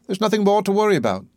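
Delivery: lightly patronizing reassurance; kindly reassurance. A narrator's reading. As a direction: soothe her briskly. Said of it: "He pats her kindly on the shoulder".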